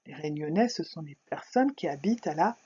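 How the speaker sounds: a clear reading of a short text; reading aloud. A narrator's reading. Teacher to pupils, calm reading aloud. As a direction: read the text calmly for young pupils.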